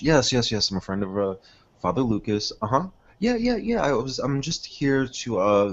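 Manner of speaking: hammed-up friendly priest; Father Burns. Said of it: "He's gonna say".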